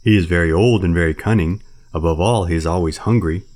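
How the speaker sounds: loud, hopeful bear. Acted. Baloo persuading Bagheera about Kaa, hopeful. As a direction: offer the idea hopefully. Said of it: "said Baloo hopefully".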